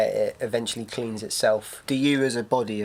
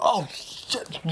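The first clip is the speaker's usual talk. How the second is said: mock panic; 8 semitones higher, 4 dB quieter than usual. Man fleeing rain.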